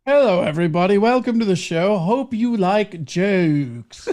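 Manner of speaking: mock host greeting; lightly voiced English host; James Corden impression. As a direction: welcome the crowd like a smarmy host. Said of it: "now you're just doing his voice".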